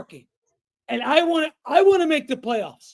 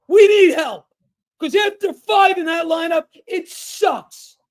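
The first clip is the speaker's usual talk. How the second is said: real angry rant. Real, not acted. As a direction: vent real frustration, pushing hard. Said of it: "Excuse me for getting upset".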